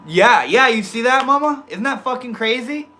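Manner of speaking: high, loud amazed rush; thrilled at the coincidence; excited. Real, not acted. Mom's message matches viewer's.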